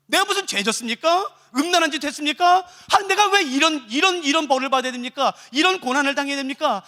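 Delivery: acted aggrieved appeal; earnest plea. Persecuted believer asking God why they suffer, pleading. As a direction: plead your case, question after question. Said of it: "수많은 간절한 호소들이에요".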